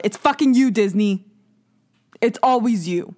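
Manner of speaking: hammed-up blame; mock outrage. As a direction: call Disney out like a big reveal. Outburst blaming Disney.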